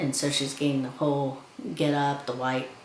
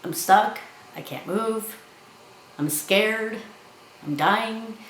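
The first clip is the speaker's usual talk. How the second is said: higher mock frightened plea; imitating scared pleading; 6 semitones higher, slower than usual. Trapped Paolo pleading to her, higher mock fear. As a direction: play the trapped man begging, higher. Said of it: "And he's like".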